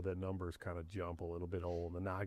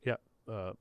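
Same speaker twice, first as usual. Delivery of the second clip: mock manager voice; 3 dB louder, faster than usual. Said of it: "So I do the old, like".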